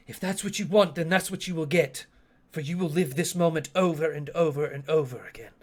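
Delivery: lightly voiced stern time-wielder; stern threat in character. Asteri threatens to trap Chotuku in the moment, stern. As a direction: pronounce the sentence on your foe, firm.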